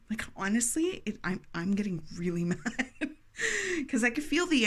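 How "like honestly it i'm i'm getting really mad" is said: laughing while mad. Real, not acted. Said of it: "It's making me mad".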